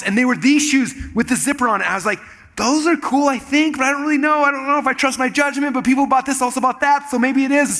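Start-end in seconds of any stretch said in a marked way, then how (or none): 2.6-7.8 high-pitched, dithering inner voice; acted-out uncertainty, held high throughout; mock self-doubt. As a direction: talk yourself into it, voice pitched up high. Acting out his own hesitant reasoning.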